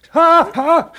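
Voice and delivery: nervous laugh. Acted.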